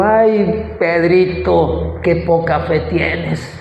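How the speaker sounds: slow, drawn-out gentle reproach; tender chiding. Acted. Jesus to Peter after rescuing him, tender chiding. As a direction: sigh over a pupil fondly, stretching the words.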